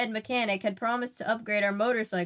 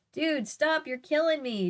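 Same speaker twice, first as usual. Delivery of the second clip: high excited whoop; 6 semitones higher than usual. Acted. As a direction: whoop like it's too much to take. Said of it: "Joe whooped out loud".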